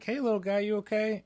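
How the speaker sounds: high sing-song voice for a kitten; cooing at a kitten. Retold or imitated. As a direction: coo gently up at a little cat. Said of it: "and I'm like".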